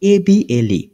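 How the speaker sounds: A B L E letter by letter; name each letter in turn, A B L E; spelling out. Shown as a demonstration. Teacher spelling a sample word for learners, letter-by-letter spelling. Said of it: "একটা word আমি বলি".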